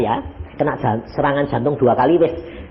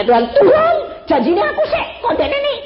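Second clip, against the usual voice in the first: high, loud wail of protest; imitated cry to God; 4 dB louder than usual. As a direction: cry out to God as the distraught wife. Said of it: "dia teriak".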